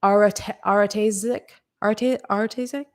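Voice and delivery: questioning attempts at "Aratezic", restarting after "Arate-"; tentative pronunciation. Real, not acted. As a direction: sound out "Aratezic" haltingly, as a question. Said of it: "gonna try to pronounce your name".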